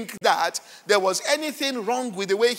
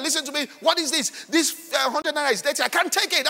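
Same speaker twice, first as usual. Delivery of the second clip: higher, building mock complaint; mock shouting at cashier; 4 semitones higher than usual. Preacher mimics a woman shouting at the cashier, mock angry. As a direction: act out a petty row over dirty money. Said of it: "shouting on the cashier".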